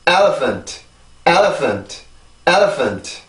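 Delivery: "elephant" in English rhythm, falling away after "el"; pronunciation drill. Shown as a demonstration. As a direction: model "elephant" with stress on the first syllable. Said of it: "한 번 더".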